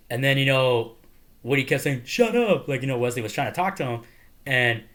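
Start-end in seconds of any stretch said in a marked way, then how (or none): 2.0-2.7 loud, high burst; mock angry retort. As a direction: imitate shutting someone up. Woody's retold snap at Wesley.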